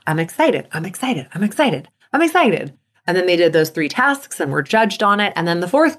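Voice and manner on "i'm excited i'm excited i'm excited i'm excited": excited self-talk. Shown as a demonstration. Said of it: "they were supposed to think".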